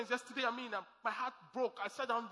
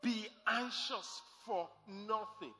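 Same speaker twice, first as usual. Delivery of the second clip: slow instruction; slower than usual. Shown as a demonstration. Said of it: "is an instruction".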